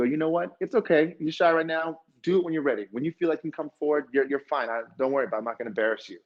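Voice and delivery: gentle reassurance. Retold or imitated. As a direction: put a nervous newcomer at ease. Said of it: "allow somebody to be shy".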